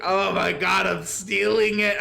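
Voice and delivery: high, loud, stretched-out laughing quote; laughing delight. Retold or imitated. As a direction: squeal it through laughter. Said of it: "fell over dead laughing".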